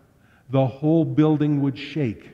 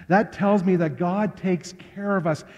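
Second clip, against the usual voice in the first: higher, fuller proclamation of faith; emphatic repeat; 4 semitones higher than usual. Real, not acted. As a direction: repeat it out to the whole congregation.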